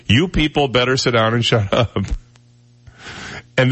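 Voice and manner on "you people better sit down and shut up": mock stern teacher. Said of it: "it was".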